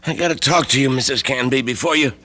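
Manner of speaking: a touch out of breath, halting; winded. Acted. Sick lodger pressing the landlady at her door. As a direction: catch your breath between words. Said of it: "You're all winded".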